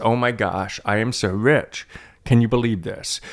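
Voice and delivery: understate the fake excitement, as a dry joke; sarcastic. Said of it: "I'm being a sarcastic".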